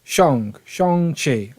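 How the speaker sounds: Shang-Chi carefully repeated as "Shong-Chee". Shown as a demonstration. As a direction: practise Shang-Chi with Shang rhyming with "song". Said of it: "need to learn how to say it properly".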